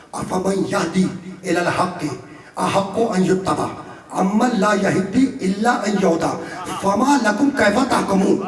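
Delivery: slow, chanted Arabic verse; Quran recitation. Acted. Preacher reciting the verse again for listeners, slow chant. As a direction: draw each word out as sacred recitation.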